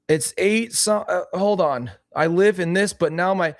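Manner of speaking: put-on high, halting old man; older man voice. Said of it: "my older man accent".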